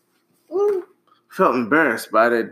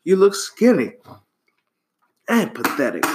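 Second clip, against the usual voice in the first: crying out; 6 semitones higher than usual. A narrator's reading. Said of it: "cried the chameleon".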